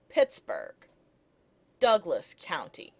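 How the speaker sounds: "Pittsburgh, Douglas County" with each word stressed up front; trochaic stress. Shown as a demonstration. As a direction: lean on PITTS, DOUG and COUN. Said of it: "A trochee like".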